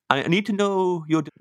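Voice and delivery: put-on tentative Minnesotan accent, breaking off. Comic retrying the dessert question, shaky attempt at Minnesotan accent. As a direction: have another go at Minnesotan. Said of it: "as a Minnesotan".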